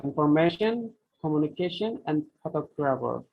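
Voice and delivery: infor-MA-tion, communi-CA-tion, pho-TOG-rapher; mid-word stress. Shown as a demonstration. Teacher giving long-word examples, middle stress in information, communication, photographer. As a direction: lean on the inner syllable of information, communication, photographer. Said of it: "almost always middle of the word".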